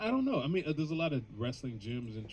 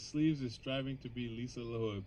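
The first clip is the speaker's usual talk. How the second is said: ordinary talk, nothing marked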